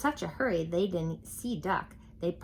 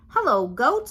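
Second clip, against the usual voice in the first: much higher, louder duck greeting; cheery duck; 7 semitones higher, 8 dB louder than usual. A narrator's reading. Duck riding past the farm animals, high cheery greeting. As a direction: sing out hello like a jolly duck.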